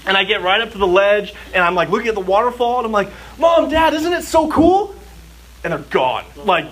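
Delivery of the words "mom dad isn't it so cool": high excited call across a crowd; calling out to parents. Retold or imitated. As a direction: call out to Mom and Dad, high and bright. Child calling to parents at waterfall.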